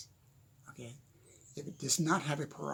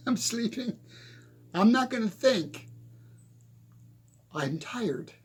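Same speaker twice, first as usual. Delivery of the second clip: higher, louder, whiny worn-out brain voice; mock tired brain; 5 semitones higher, 5 dB louder than usual. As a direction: voice the brain shutting down, half joking. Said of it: "and says".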